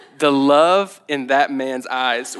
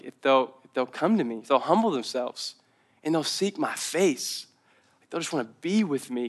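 gentle God voice; 9 dB quieter than usual. Retold or imitated. Quoting God in scripture.

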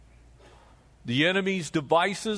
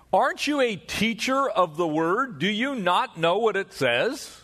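a mildly chastising teacher, pitched up on the questions; 5 semitones higher than usual. Acted. Pastor voicing Jesus chiding Nicodemus, mild chastising rebuke. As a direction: gently scold him for not knowing his own Bible. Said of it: "a little bit of air, probably of chastisement there".

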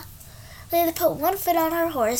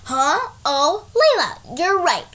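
just woken up; 2 semitones higher, 5 dB louder, slower than usual. Acted. Friend just woken from snoring.

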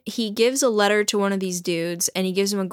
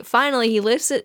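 normal talking voice

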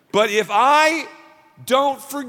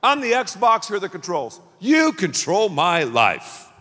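voicing the unforgiving self. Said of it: "I'm saying".

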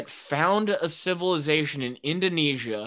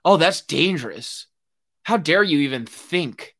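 sarcastic; 5 dB louder than usual. Real, not acted.

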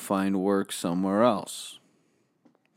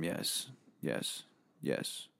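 whispered yes; 2 semitones lower, 12 dB quieter, slower than usual. Acted. Whispered admission of drug addiction.

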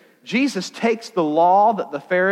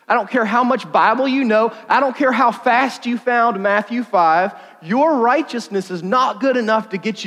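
higher, louder, driving preacher voice; preaching at full force; 5 semitones higher, 3 dB louder than usual. Acted. Preacher telling the youth their church record won't save them, forceful. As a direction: hammer it home to the room.

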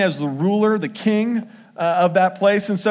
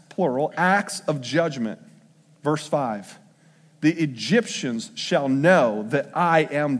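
lower, measured reading of the verses; scripture reading; 3 semitones lower than usual. Acted. Pastor reads Exodus seven to the congregation, lower and measured. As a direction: read the passage to the congregation with weight.

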